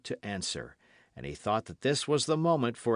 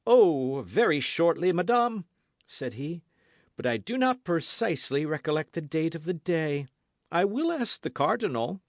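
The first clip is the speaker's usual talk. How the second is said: much higher, louder, brusque evasion; evasive king; 8 semitones higher, 6 dB louder than usual. A narrator's reading. King dodging the queen's question about the date, brusque. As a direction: brush off her question.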